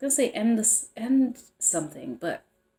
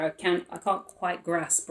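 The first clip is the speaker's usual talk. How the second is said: northern English accent; slower than usual. Real, not acted. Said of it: "that, um, accent".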